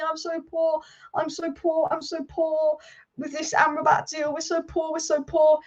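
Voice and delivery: mock the club crying poverty; sarcastic poor-me chant; mock whine. Mocking the club's poverty excuse.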